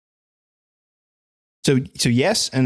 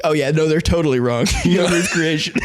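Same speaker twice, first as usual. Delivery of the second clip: sarcastic. Retold or imitated. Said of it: "my thought when reading it was like".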